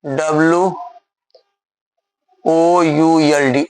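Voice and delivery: letters of वुड spelled slowly one by one; slow spelling. Shown as a demonstration. Teacher to pupils, spelling slowly to copy. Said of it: "तो वुड लिख लें, यहाँ लिख लें".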